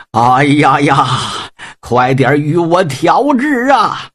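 a wounded general bellowing for the medic, drawn out; pained shout. Acted. Wounded Deng Jiugong urges the army doctor: slow pained shout.

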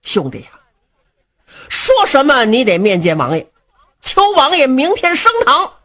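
lightly voiced fat sworn brother, begging earnestly; fat brother Du Cha pleading. Du Cha begs Luo Cheng to ask the prince, pleading. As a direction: plead with your young brother, voice rising.

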